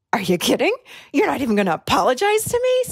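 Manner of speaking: mock indignant disbelief. Fuming at the unapologetic snorer, indignant. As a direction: act out being ticked off, rising on the second question. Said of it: "So I am ticked off".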